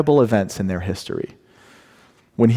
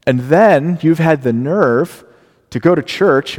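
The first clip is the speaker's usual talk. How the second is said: raised, rebuking voice of God; stern indictment; 2 semitones higher than usual. Retold or imitated. Preacher voicing God rebuking his people. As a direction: lay out the charges against them. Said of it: "Here's what he says".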